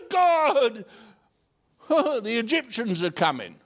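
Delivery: high, loud, laughing mock panic; a hammed-up cry for help; panicked Moses.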